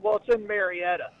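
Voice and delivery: Marietta with every syllable, mair-ee-ETT-a; newcomer's pronunciation. Retold or imitated. Quoting people who moved there, four-syllable Marietta. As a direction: sound the 'ee' in Marietta like a newcomer. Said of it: "if they moved there, they said".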